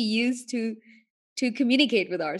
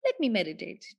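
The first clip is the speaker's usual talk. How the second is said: soft gentle invitation; 3 semitones lower, 4 dB quieter than usual. Shown as a demonstration. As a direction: Let me meditate leise und sanft, Betonung auf let. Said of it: "not that I have to meditate".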